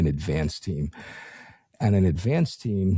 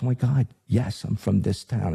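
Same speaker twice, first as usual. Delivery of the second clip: excited; 3 semitones higher than usual. Retold or imitated. Excited receptionist, retold.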